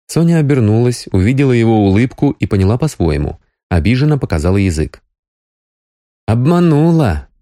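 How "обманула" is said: lightly voiced young woman, mildly reproachful, higher. A narrator's reading. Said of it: "укоризненно сказал Крайнев".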